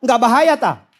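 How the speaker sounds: playful Javanese-accented question, falling at the end. Shown as a demonstration. Batak pastor joking with the congregation, Javanese accent. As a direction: put on a Javanese lilt. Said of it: "lo gak Jawa iki".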